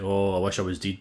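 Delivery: low, soft mock-tragic sigh of a line; mock despair. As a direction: ham up the weepy film heroine, quietly. Melodramatic lead's line mocked.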